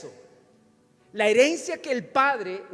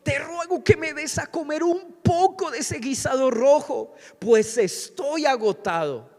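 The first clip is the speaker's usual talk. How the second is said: raised, loud voice for a plea; emphatic scripture reading; 7 semitones higher, 6 dB louder than usual. Acted. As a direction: read the verse out with force. Reads Esau's plea aloud.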